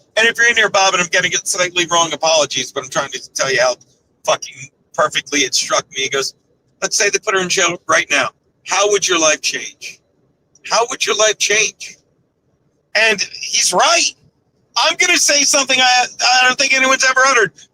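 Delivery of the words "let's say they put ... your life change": put-on, mock-wistful yet matter-of-fact voice. Retelling what Bob asked, the speaker imitates Bob's wistful, matter-of-fact tone. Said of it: "very wistfully, very matter of factly".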